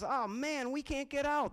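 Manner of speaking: mock panic; panicked frogs. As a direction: realize you're trapped in the bucket.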